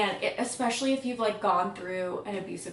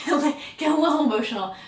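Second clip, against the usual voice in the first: louder, higher, fast teary laugh; laughing through tears; 6 semitones higher, 8 dB louder, faster than usual. Real, not acted. Reviewer choking up over a line about her mom, teary laugh. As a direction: laugh it off while welling up. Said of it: "Oh, I'm gonna cry".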